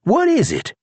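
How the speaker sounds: deputy reminding the prisoner; Charlie's voice. A narrator's reading. Charlie asks George.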